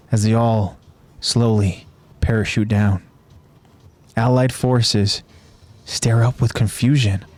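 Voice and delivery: measured, even narrator's read; story recap narration. A narrator's reading. Narrator recapping a battle for listeners, measured storytelling. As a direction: narrate the battle in deliberate phrases.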